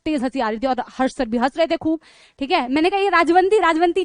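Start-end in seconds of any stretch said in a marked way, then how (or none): 3.0-4.0 teasing. Retold or imitated. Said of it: "छेड़ने लगी".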